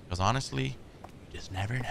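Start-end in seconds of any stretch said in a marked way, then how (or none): 1.3-1.9 breathy hushed whisper. Acted. Gamer hushing viewers about jump scares. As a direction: lean in and whisper it.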